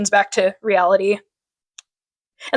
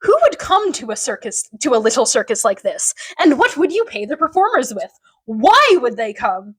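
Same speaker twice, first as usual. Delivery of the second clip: lightly dramatized challenge, lingering on the last question; mock dramatic questioning; retold dramatic acting. Victor challenging the circus owners, lightly dramatic. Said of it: "delivers them convincingly with his dramatic acting".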